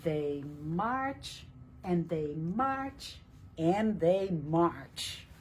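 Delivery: slow, marching beat on each march; rhythmic read-aloud. Acted. Teacher reading to children, slow marching rhythm. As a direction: read it like steady footsteps. Reading rhyming picture book text.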